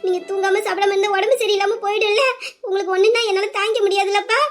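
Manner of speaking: acted teary pleading; a worried daughter close to crying; tearful. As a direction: scold a parent lovingly through tears. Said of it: "நீ அழுவாதம்மா தங்கம்".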